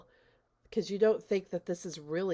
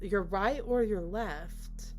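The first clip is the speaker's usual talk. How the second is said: lightly voiced calm hostess, higher pitch; 5 semitones higher than usual. Hostess questioning the man who wants out, eerily calm. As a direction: imitate her composed question, high and unhurried. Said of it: "she's like, something to the f-, effect of".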